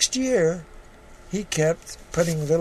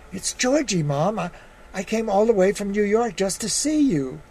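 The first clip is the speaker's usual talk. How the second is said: pleading son; 5 semitones higher than usual. Acted. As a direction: beg her to open the door.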